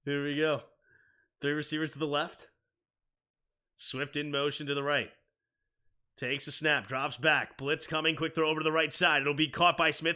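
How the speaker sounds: sportscaster calling the snap; play-by-play. Acted. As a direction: call it like live TV commentary. Calls the game play-by-play.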